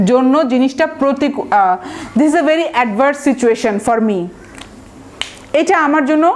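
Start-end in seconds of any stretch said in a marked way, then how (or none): 2.2-4.2 slow example sentence. Shown as a demonstration. Teacher models example sentence slowly.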